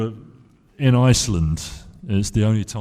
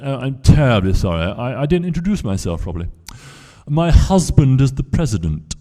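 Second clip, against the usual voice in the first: well-spoken lady; 4 semitones higher, 6 dB louder than usual. Retold or imitated. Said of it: "terribly, terribly well-spoken, uh, lady".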